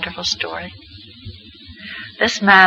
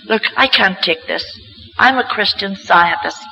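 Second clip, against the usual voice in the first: retold firm protest, slightly raised; impassioned protest; 2 semitones higher than usual. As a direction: insist with conviction, refusing to accept it. Retold outburst at grieving family.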